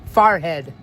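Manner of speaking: "forehead" said "FAHR-head", open a vowel; "forehead" with the New York "ahr"; New York pronunciation. Shown as a demonstration.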